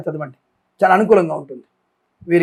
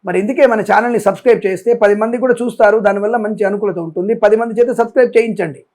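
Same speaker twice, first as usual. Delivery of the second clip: raised, insistent voice pushing the point; forceful appeal; 2 semitones higher, 3 dB louder than usual. Real, not acted. Astrologer urging his viewers to subscribe, raised and insistent. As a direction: press hard, like you're begging the crowd. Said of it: "అందుకే ఒక్కొక్కసారి గట్టిగా మాట్లాడుతున్నాను".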